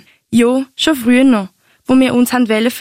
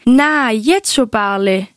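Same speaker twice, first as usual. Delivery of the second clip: verliebtes Telefonat nachgespielt; slower than usual. Retold or imitated. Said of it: "hat's amix etwa so tönt".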